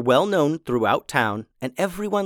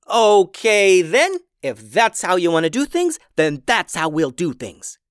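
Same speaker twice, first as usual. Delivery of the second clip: higher, louder furious shout; 6 semitones higher, 6 dB louder than usual. Acted. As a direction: shout it out in anger. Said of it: "shouted Louisa".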